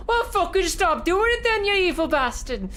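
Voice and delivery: high, loud angry Scottish heckle; broad Scottish accent. Retold or imitated. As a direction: yell it like a furious Glasgow fan. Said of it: "a broad Scottish accent pierced through".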